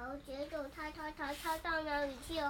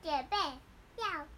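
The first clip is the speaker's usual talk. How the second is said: high, slow, loud call; excited announcement; 5 semitones higher, 7 dB louder, slower than usual. Acted. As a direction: draw it out like a big announcement. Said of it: "他说".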